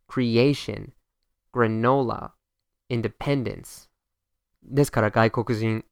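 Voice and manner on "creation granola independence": Creation, granola, independence with a clear, leaned-on next-to-last syllable; cre-A-tion, gra-NO-la, inde-PEN-dence, one word at a time; second-to-last syllable stressed. Shown as a demonstration. Teacher giving examples, Creation, granola, independence stressed next to last. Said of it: "pronounce the second to last syllable really clearly".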